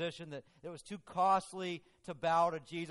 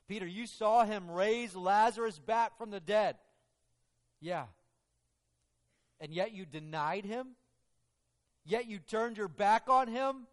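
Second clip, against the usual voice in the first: louder, higher pointed questioning; confronting Peter; 6 semitones higher, 8 dB louder than usual. Acted. Preacher questioning Peter on the stand, loud accusing. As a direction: press him hard with each question.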